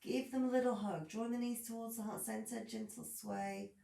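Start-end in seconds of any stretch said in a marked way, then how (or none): 2.7-3.7 gentle cue. Shown as a demonstration. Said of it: "teacher cues gentle movement".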